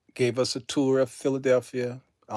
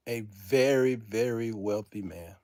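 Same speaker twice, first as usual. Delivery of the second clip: hushed, lower repeat; low and heartfelt; soft, sincere; 5 semitones lower, 5 dB quieter than usual. Real, not acted. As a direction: let it sink in quietly.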